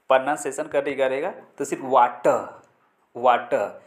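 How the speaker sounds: वाटर said waTa, no r; silent r. Shown as a demonstration. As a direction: drop the end r in वाटर. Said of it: "तो वाटर नहीं है".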